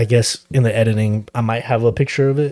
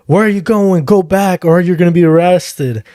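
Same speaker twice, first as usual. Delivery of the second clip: raised-pitch imitation of a stern cop; insistent, higher-pitched mock command; retold cop's order; 5 semitones higher than usual. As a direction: imitate a cop warning someone off. Acts out cop ordering him back.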